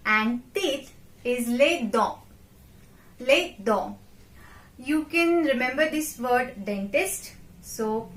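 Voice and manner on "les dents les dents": les dents said slowly with a silent final ts; slow model pronunciation. Shown as a demonstration. Teacher slowly introducing les dents to learners. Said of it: "Repeat after me".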